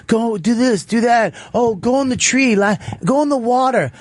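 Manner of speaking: mock photographer calling out commands; bossy orders.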